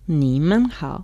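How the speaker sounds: slow careful repeat of "你们好"; repeating Mandarin. Shown as a demonstration. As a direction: say "你们好" slowly together. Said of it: "Y juntos".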